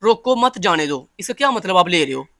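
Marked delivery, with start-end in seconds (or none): 0.0-1.1 "रोको मत जाने दो" run together as one phrase; read as one phrase. Shown as a demonstration. Teacher reading an Urdu phrase to students, run together. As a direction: say "रोको मत जाने दो" without a gap. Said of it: "अगर मैं ऐसे पढ़ूं".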